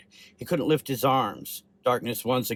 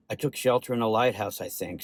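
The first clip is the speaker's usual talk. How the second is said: short of breath, fading; labored breathing. Acted. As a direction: gasp the words out weakly. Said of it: "Sam said with labored breathing".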